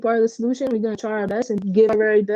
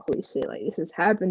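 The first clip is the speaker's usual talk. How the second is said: low, breathy whispered awe; stunned whisper; 3 semitones lower, 5 dB quieter, faster than usual. Retold or imitated. Player recalling the moment it felt real, whispered awe. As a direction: whisper it like you can't believe it. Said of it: "was like".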